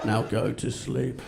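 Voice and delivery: slow, soft, lightly creepy sleep guide. Retold or imitated. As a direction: send them off to sleep, slowly and creepily. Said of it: "He's got this really creepy voice".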